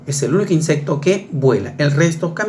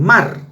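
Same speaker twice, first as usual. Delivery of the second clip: "mar" set apart with firm stress; stressed syllable; 4 semitones higher than usual. Shown as a demonstration. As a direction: punch "mar" as the strong syllable. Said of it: "la fuerza de voz está".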